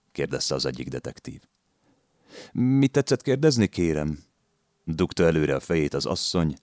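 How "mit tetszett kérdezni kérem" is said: much higher feigned deaf question; playing deaf. A narrator's reading. Landlady plays deaf to the detective, much higher. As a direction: pretend you can't hear him. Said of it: "mintha süket lenne".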